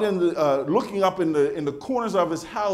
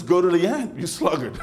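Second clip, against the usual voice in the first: proverb with a laugh; 4 semitones higher, 3 dB louder than usual. Retold or imitated. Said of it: "that proverb that says".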